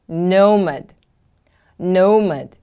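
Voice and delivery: "Nomad" with a strong NO, falling away; careful teacher's "Nomad", weight on the first syllable; stress on first syllable. Shown as a demonstration. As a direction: model "Nomad" as NO-mad. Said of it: "The stress is on the first syllable".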